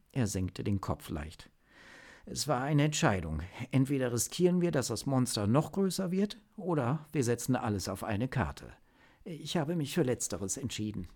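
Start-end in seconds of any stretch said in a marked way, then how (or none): 2.3-11.1 put-on higher-pitched, earnest young-agent report; agent explaining himself. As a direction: justify your technical choice to the chief. (ernsthaft erklärender Agent, höhere Stimme)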